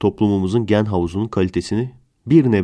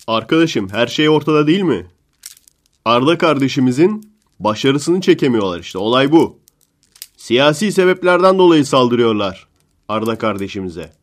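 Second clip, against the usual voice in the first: mock partisan pundit; 4 semitones higher than usual. Pundit defending Arda to the reporter, worked-up rant. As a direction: lecture the reporter like a fired-up defender.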